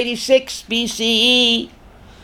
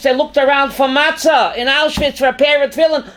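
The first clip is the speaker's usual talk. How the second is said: raised, higher repeat with a punch on pair; impassioned outcry; 4 semitones higher than usual. Acted. Teacher to class on Auschwitz, impassioned raised repeat. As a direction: cry it out, stressing pair.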